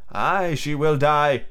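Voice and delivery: slow, resigned "she will die"; admitting. Acted. Slightly agreeing with Toodles about Wendy, admitting it. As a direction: concede it with a drawn-out "will". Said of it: "Slightly admitted".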